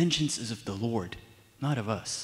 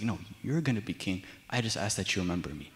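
reassuring; 6 semitones lower, 8 dB quieter, faster than usual. Retold or imitated. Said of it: "he's like".

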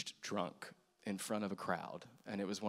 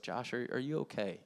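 gentle, even check-in on a friend; calm concern. Retold or imitated. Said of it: "really calmly was just like".

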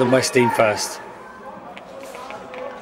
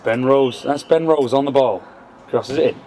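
lightly voiced northern English commentator; play-by-play in a mild northern accent; 2 semitones higher than usual. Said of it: "Gotta do the northern accent when you're commentating".

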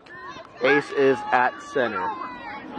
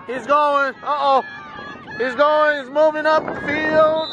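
excited; 10 semitones higher than usual. Real, not acted. Excited call of a breakaway run.

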